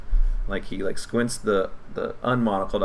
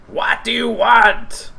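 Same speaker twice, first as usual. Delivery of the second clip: high, slow, loud shout through the door; goblin leader shout; 8 dB louder, slower than usual. Acted. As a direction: bark from behind the door. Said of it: "you hear a voice say".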